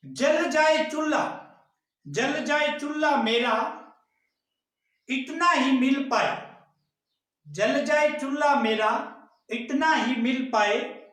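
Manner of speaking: lightly acted farmer's plea in verse; farmer's plaintive verse. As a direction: recite as a farmer pleading, short phrases with long pauses. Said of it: "एक किसान अपनी पीड़ा व्यक्त करता है". (किसान की पीड़ा का कविता पाठ)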